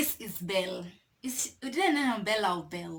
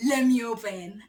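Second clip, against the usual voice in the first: bold shout. Retold or imitated. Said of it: "And I'm like".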